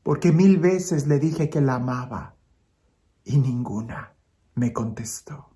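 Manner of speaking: lightly acted hurt, fading away; tearful, sighing child. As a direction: explain sadly with pauses, sinking at the end. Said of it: "la niña entre lágrimas y suspiros le dice".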